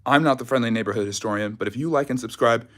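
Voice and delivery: short of breath after jogging; catching breath while talking. Real, not acted. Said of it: "excuse me for my shortness of breath".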